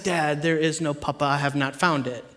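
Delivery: low, hushed, solemn report; responsible firstborn. Retold or imitated. Eldest son reporting back to dad, low and solemn. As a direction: imitate a serious eldest boy reporting quietly. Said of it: "consistent firstborn, very responsible".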